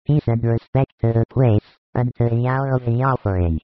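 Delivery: a firm, commanding call for calm. A narrator's reading. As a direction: call the crowd to order with authority, not a scream. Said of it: "He reaches it and shouts".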